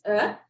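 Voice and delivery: "er" as a short uh, no r; short u sound. Shown as a demonstration. Teacher contrasting it with put, "er" as short uh. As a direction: say "er" as a brief uh. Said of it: "the short vowel sound for U is".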